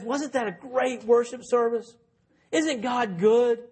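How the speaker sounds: mildly mock-enthusiastic churchgoer; imitated happy Christian. Happy Christian gushing to a despairing friend, mock-enthusiastic.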